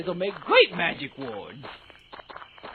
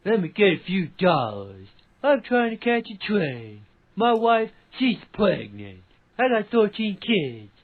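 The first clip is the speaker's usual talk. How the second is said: Shady Drifter voice; 2 semitones higher than usual. Retold or imitated. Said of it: "your Shady Drifter impression".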